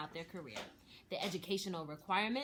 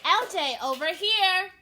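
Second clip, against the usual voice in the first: higher and much louder, a shout across a busy room; calling across the room; 12 semitones higher, 15 dB louder than usual. A narrator's reading. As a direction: call out to get his attention. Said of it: "waved Chef".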